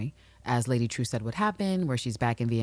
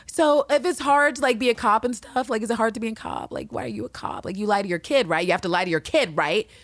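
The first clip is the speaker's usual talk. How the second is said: high-pitched imitation of a nosy kid, building louder; pestering child questioner; 8 semitones higher, 4 dB louder than usual. Host as Bian grilling Angela about being a cop, pushy kid voice. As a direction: pile up questions high and insistent, peaking loud.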